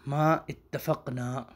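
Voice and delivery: ما اتفقنا drawn out syllable by syllable; very slow. Shown as a demonstration. Teacher spelling the original word out slowly. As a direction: stretch every syllable of ما اتفقنا.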